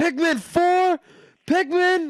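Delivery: shrill, very high, loud squeal of excitement. Retelling reacting in the car to a game announcement: retelling own screaming. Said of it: "I was screaming".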